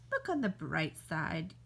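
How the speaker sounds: low, deadpan look on the bright side; dry consolation. Acted. Telling a doomed friend the grim bright side. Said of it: "dry consolation, low".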